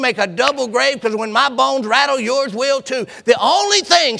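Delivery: rising, impassioned declaration; determined vow. Acted. Ruth vowing to Naomi she will never leave, impassioned. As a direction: swear it with everything you have. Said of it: "looked at Naomi and said".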